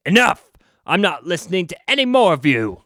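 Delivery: hammed-up superhero yelling stop; mock shout. Muscle shouting down the squabbling heroes, mock shout.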